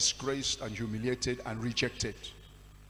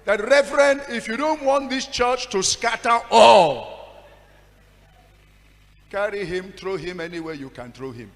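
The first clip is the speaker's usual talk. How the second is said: loud, high, slow protest to the pastor; indignant complaint; 4 semitones higher, 10 dB louder than usual. Retold or imitated. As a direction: demand the pastor send him away. Congregation member complaining loudly to pastor.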